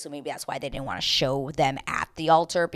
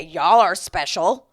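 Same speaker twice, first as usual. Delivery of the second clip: slow, louder sarcastic remark; sarcastic jab at the couple, slow and louder; sarcastic drawl; 9 dB louder, slower than usual. Real, not acted. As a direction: tease them, slowly. Sarcastic reaction to amusement park.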